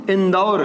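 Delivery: इंदौर with a clear 'au', 'in-daur'; correct au vowel. Shown as a demonstration. Teacher repeating it for students, careful au vowel. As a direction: sound the 'au' fully in इंदौर. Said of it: "अब शुद्ध बोलेंगे".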